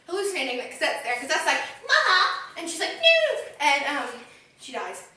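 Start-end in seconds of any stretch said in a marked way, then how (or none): 1.9-2.9 high mock cry. Retelling Cosette calling. 2.9-3.4 high mock cry. Retelling Fantine's cry.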